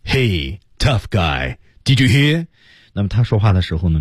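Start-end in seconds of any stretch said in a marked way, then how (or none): 0.1-2.5 气息很足的挑衅; full-breath taunt. Shown as a demonstration. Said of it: "那气息是够足的". (气息饱满地挑衅)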